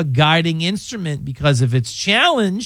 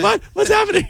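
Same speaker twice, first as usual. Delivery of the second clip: lightly mocked high-pitched bewilderment; a hint of a startled co-host, pitched up high; imitating startled Mike. Host teasing co-host over his reaction, lightly mimicking startled confusion. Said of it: "Mike was like".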